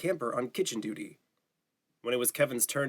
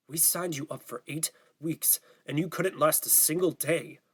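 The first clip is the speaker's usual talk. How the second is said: angry father; 3 semitones higher than usual. Acted. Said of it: "his father's voice echoed in his head".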